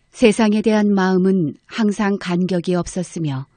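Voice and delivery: normal talking voice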